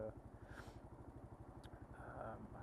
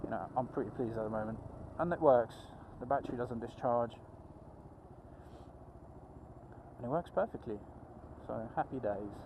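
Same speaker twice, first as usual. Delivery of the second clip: muffled inside a helmet. Real, not acted. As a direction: talk from inside a closed helmet. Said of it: "And my visor's fogged up".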